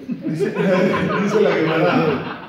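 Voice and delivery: slow, laughing through it; real laughter, drawn out. Real, not acted. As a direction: still laughing as you speak. Laughing at his own joke.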